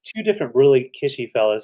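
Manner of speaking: winded from climbing the stairs; breathless, catching her breath. Real, not acted. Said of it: "I'm catching my breath from going up the stairs".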